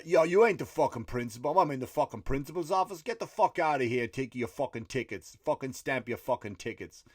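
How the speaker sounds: mock belligerence, easing off toward the end; aggressive. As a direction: act out a heckler mouthing off. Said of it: "kinda got a bit aggressive".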